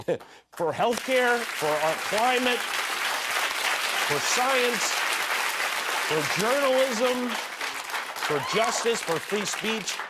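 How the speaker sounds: high, slow voice holding back tears; real choke in the throat, halting between items; choked up. Real, not acted. Host listing losses of a terrible night, choked up. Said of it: "Jimmy Kimmel choked up during his monologue".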